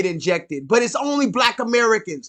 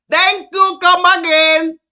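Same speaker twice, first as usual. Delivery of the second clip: put-on high, loud Indian shopkeeper accent; 7 semitones higher, 7 dB louder than usual. Mimicking the Sri Lankan man as an Indian shopkeeper accent. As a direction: chirp it like a cheerful Indian cashier. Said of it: "That's what he was".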